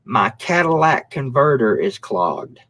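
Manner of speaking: slow "Cadillac converter" for catalytic; mock their "Cadillac converter", slowly. Mocking people who call it a "Cadillac converter". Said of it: "people actually say this shit".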